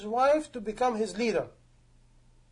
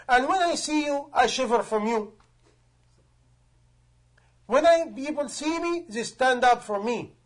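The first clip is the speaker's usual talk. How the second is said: a caliph's raised, pleading questions; awed caliph. Retold or imitated. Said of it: "and he said".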